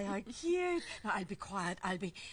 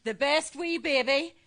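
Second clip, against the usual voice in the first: put-on baby talk; 3 semitones lower than usual. Grandmother cooing to the baby.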